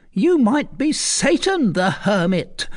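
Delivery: put-on defiant old woman. Recluse defying Tristan, scornful. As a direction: throw his name back at him.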